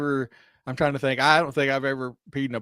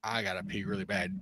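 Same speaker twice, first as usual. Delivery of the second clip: put-on quoting drunk passenger; 4 semitones lower, 12 dB quieter than usual. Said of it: "she's like".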